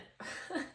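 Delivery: short voiceless puff of laughter; small breathy laugh. Real, not acted. Speaker moved by mom's message, breathy laugh. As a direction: let out one breathy little laugh.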